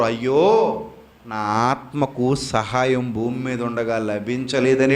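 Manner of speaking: low, slow regretful wail, half-acted; understated acted grief; mock lament. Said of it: "ఏడుస్తారు".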